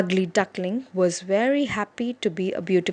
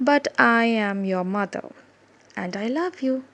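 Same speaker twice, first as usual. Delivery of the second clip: tender mother; 2 semitones higher than usual. Acted. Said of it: "said mother".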